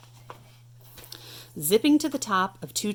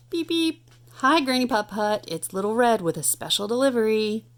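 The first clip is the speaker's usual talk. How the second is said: bright scooter call; 4 semitones higher than usual. Acted. Scooter calls through Granny's door, high and chirpy. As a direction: beep it out high like a little scooter.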